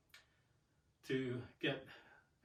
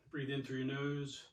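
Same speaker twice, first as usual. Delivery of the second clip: calm guidance; 4 dB quieter than usual. Shown as a demonstration. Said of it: "calming breath".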